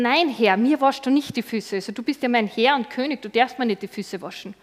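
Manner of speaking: Peter protesting. Acted. Petrus refuses Jesus.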